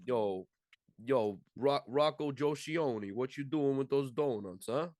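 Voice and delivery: hammed-up Italian-American wise guy; mock Italian-American accent. Playing Italian-American characters in banter.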